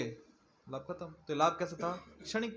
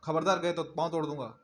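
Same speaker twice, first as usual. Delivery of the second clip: mock threat; 3 dB louder than usual. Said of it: "ऐसा नहीं कहा कि".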